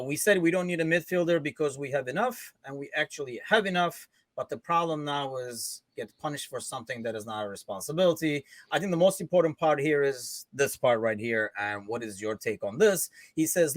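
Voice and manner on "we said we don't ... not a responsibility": lightly put-on Turkish-accented English. Host reads the manager's quote to co-hosts, Turkish accent. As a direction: read it out with a mild Turkish accent. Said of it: "I'll do the Turkish accent".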